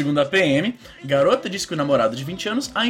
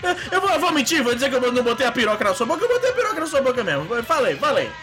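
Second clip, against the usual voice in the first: high laughing confession; 8 semitones higher than usual. Pretend. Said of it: "vamos simular aqui".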